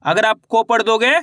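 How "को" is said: "को" with a single long o; wrong "o" vowel. Shown as a demonstration. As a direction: say "को" as k plus o, no au glide. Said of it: "यहाँ पे ओ की मात्रा का उच्चारण हो जाएगा".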